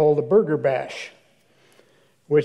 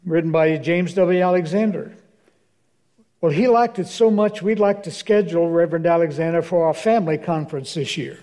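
put-on Texas accent. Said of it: "a lady with a strong Texas accent".

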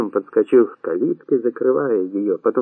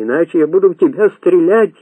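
higher, desperate threat; pleading; 6 semitones higher, 4 dB louder than usual. A narrator's reading. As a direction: plead with a raised voice. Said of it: "уже умоляюще попросил несчастный". (умоляющая угроза, на повышенных тонах)

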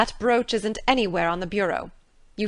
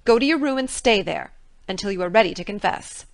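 put-on angry older woman, much louder; stern order; 7 dB louder than usual. A narrator's reading. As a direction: send her to her room firmly. Marilla ordering.

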